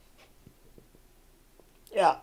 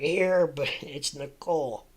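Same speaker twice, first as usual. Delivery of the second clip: correcting politely; 3 semitones higher, 4 dB louder, slower than usual. Retold or imitated. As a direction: correct the name, slightly amused. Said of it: "And she was like".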